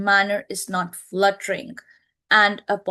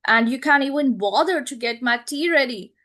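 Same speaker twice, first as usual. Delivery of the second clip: ordering tone; 3 semitones higher, 4 dB louder than usual. Shown as a demonstration. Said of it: "it's like she's ordering".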